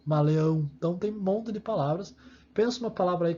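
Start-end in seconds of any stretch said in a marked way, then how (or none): 0.0-0.7 "camaleão" with the opening "ca" held apart; first syllable set apart. Shown as a demonstration. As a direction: sound out "ca", then finish "camaleão". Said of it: "começa com a sílaba K".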